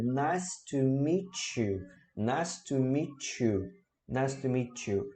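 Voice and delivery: slow 'nice to meet you' with 'meet you' as 'mee-chu'; measured 'nice to meet you', no gap before 'you'; connected phrase. Shown as a demonstration. Teacher modelling the greeting, connected phrase. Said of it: "nada de falar separado".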